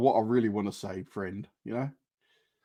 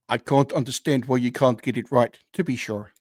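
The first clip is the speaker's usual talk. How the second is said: put-on South African Irish accent. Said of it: "South African Irish accent".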